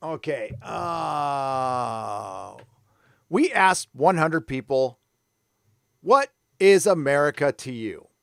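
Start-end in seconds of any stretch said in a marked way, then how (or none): 3.3-8.1 reads loud and slowish in a lightly put-on America Chavez accent; hammed-up America Chavez comic-reading accent, louder than his chat. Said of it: "this is my America Chavez accent".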